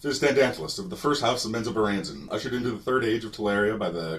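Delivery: hiccup between phrases while proclaiming; imitated hiccups.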